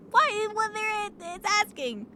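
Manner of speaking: high squeaky laughing why; giggling disbelief up high; laughing protest. Real, not acted. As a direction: laugh through the question.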